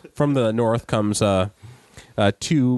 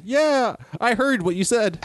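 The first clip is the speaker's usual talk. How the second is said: high, dismissive mock reply; 12 semitones higher than usual. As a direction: brush it off, mock. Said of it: "He just basically could have said".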